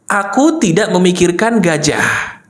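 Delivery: slow, measured recital; deliberate follow-along phrase; model to repeat. Shown as a demonstration. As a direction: say it slowly for others to copy. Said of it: "Ikuti begini".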